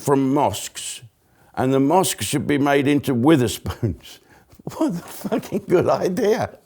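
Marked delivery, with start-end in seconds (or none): 4.8-6.6 sarcastic mock approval.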